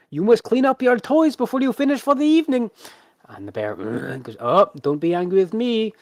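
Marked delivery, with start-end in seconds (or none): 0.1-2.7 very high, loud singsong showman; chiding ringmaster. Acted. Ringmaster tells the bear to tidy its toys, high theatrical chiding. 4.4-5.9 high, projected stage plea; placating ringmaster. Acted. Ringmaster soothes the grumbling bear before the crowd, high showman voice.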